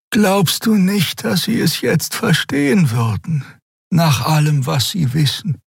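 high otherworldly plea; Xea urging. Acted. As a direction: gently push him to confide. Xea urges Kero.

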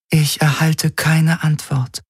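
a calm, distant alien intelligence; alien Helix voice. A narrator's reading. Helix reports no reply.

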